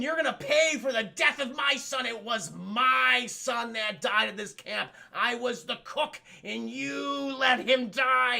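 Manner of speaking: slow, drawn-out accusation; hammed-up, deliberate threat; mock vengeful mother. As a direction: imitate a menacing killer's speech. Pamela threatens Alice, reveals herself.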